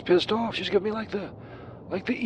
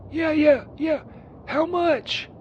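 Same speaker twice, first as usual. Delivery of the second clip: mock catcall; 6 semitones higher, much slower than usual. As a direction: holler it after her like a sleazy john. Calling out to passing woman.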